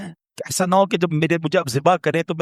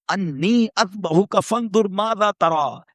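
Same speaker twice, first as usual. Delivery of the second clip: recitation; slower than usual. Acted. Quranic verse recited slowly.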